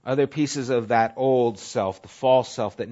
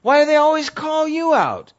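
challenging retort; 14 semitones higher, 7 dB louder than usual. Retold or imitated. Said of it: "I go".

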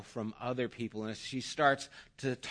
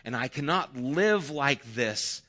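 mildly desperate plea, a little raised; begging; 3 semitones higher, 5 dB louder than usual. Acted. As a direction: plead earnestly as a grieving mother. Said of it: "she just begs him".

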